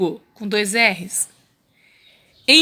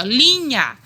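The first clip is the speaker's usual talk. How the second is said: LINHA stretched in one sweep, louder first syllable; drawn-out word; 2 semitones higher, 4 dB louder than usual. Shown as a demonstration. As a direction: say "linha" long and connected. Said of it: "aqui eu falo assim". ("linha" alongada, sem separar)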